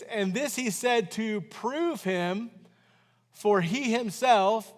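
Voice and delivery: slow, measured Bible reading; reading the verse aloud to the church, slow and measured; scripture reading. Acted. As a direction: read the verse slowly and deliberately.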